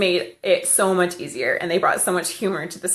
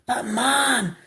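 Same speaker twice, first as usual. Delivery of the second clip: higher, slow imitation of a child; lightly voiced boy protesting to his mom; little boy; 7 semitones higher, much slower than usual. Little boy in the produce section to his mother, childlike protest. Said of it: "he's like".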